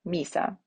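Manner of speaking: "misa" with the accent on MI; stress on the I. Shown as a demonstration. Teacher confirming the accent, "misa" stressed on the I. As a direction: land on the I of "misa", then let go. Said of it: "So on that I".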